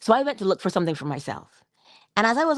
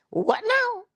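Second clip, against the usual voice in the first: breathy whisper, pitched up; whispered to myself; 14 semitones higher than usual. Retold or imitated. To himself, hearing a stranger, whispered what now. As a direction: mutter it under the breath in surprise. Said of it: "I said to myself".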